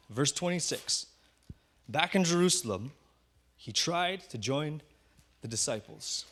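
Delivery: slow, deliberate scripture reading with pauses; unhurried reading, pausing between phrases; really slow reading. Shown as a demonstration. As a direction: read it slowly, phrase by phrase. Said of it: "I'll read it really slow".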